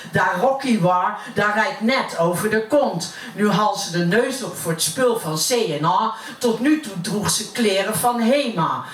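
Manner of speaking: gossiping neighbour in Utrecht dialect; broad Utrecht accent. Acted. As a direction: recite it as Utrecht stairwell gossip. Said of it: "dat heb ik naar het Utrechts vertaald". (roddelend in plat Utrechts)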